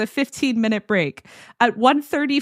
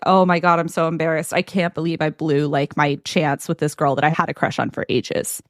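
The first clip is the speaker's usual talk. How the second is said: hungover groan; 7 semitones lower than usual. Retold or imitated. Hungover Spencer's embarrassment.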